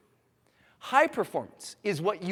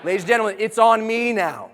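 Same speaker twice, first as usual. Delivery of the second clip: bold declaration; 6 semitones higher, 11 dB louder than usual. Shown as a demonstration. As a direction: plant each word like a flag. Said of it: "say it with strength in your body".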